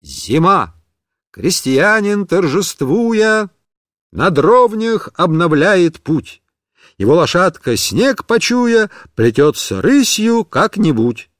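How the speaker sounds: bright, slow poem recital; schoolboy reciting Pushkin with gusto; brisk recitation. Acted. Boy reciting a poem boldly to his teacher. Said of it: "И я бодро завёл".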